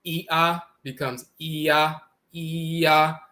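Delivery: E A run together into yah; E A merged as yah; blended E A. Shown as a demonstration. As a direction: slide E into A. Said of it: "when you put E and A together".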